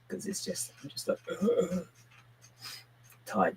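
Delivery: groggy, sighing zombie moan. Retold or imitated. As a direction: drag it out like the undead. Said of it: "doing an impression of a zombie".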